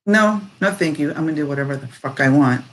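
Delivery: acted-out fighting back, quick finish; defiant refusal. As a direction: push back, then rattle off the refusal. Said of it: "that's the feeling, because you're fighting back".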